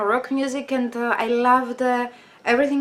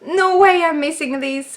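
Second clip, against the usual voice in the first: excited squeal; 3 semitones higher than usual. Retold or imitated. Recalling the reunion announcement, thrilled and squealing. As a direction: burst out in disbelieving joy. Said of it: "I was like".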